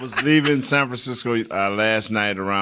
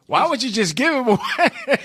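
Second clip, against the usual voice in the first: high laughing mimic of a colleague; Mickey impression; 4 dB louder than usual. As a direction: squeak it out through a laugh. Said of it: "Remember when Mickey was just saying".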